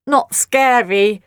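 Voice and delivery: slow, drawn-out monster voice; lightly voiced little monster; slow creature voice. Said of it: "they smiled".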